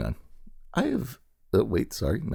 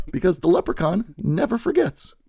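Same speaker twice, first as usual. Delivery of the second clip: rhyming proclamation; 8 semitones higher than usual. Pretend. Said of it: "Did a little rhyme there".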